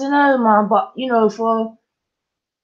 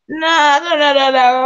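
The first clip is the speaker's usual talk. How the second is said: emphatic no; 9 semitones higher, 5 dB louder than usual. Real, not acted. Firm refusal, rising pitch.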